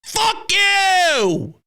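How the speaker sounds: high, drawn-out curse; mock scream at the Mets. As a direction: let it rip at the opponent. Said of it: "my response is always".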